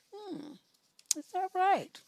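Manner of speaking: high, doubtful hmm then question; sarcastic disbelief; skeptical hmm. Real, not acted. Host reacts skeptically to letter.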